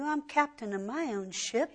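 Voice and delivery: a quiet proud brag of independence; smug self-assured quote. Retold or imitated. Preacher quietly mimics a proud unbeliever, smug.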